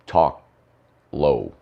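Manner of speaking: slow, separated words sinking in pitch; talking low. Shown as a demonstration. Host shows all his sore throat can do, talking low. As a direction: drop low on the last word. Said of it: "I can just".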